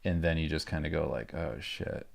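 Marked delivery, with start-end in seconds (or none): 1.3-2.1 breathless, voiceless "oh, shit"; a deflated whisper at the finish line; whispered dismay. Retold or imitated. Deal falls through at the end.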